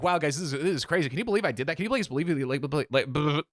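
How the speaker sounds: excited chatter dissolving into blah-blah; mock giddy babbling. Cross-legged patient babbling at the front seats, mock-giddy chatter. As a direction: act out adrenaline-fuelled rambling.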